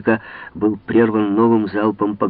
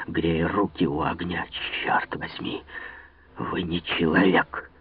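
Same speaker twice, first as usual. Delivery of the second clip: quiet hostility; 4 semitones lower, 6 dB quieter than usual. A narrator's reading. D'Artagnan quietly rebukes the general, seething. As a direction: reproach him in a seething hush. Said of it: "враждебно взглянув на него".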